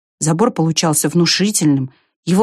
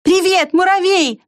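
calling out; 13 semitones higher, slower than usual. A narrator's reading. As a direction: shout the hello across. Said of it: "крикнула Белка".

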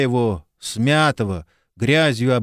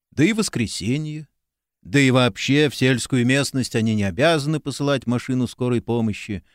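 usual speaking voice

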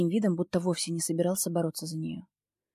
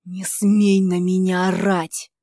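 злое шипение; 9 dB louder, slower than usual. Acted. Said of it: "шиплю, злясь".

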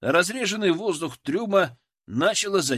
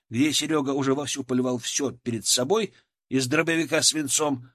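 usual speaking voice

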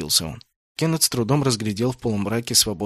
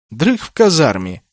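curt; 6 semitones higher, 7 dB louder than usual. A narrator's reading. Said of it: "лаконично отрезал Наоки".

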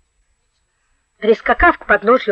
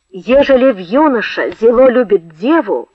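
reciting. A narrator's reading. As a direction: recite old-fashioned verse. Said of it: "прочитал наизусть".

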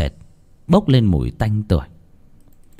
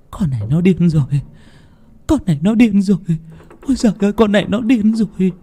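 much higher, frantic repeating; panicked old woman; 10 semitones higher, faster than usual. A narrator's reading. Grandmother fretting about her granddaughter, high and frantic. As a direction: wail it to yourself in shock.

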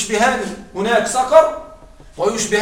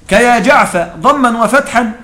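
recited verse; slower than usual. Shown as a demonstration. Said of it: "قال هنا".

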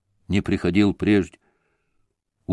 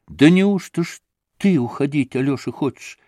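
sorrowful astonishment; 4 semitones higher than usual. Acted. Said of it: "воскликнула она в горестном изумлении".

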